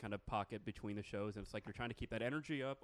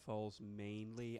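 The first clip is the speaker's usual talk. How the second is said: slow British accent model; British elocution; much slower than usual. Shown as a demonstration. Host leading a mock lesson, slow British elocution. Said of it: "Now repeat after me".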